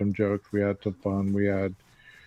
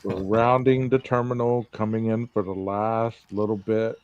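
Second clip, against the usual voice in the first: airline pilot announcement. Pretend. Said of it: "is this your pilot voice".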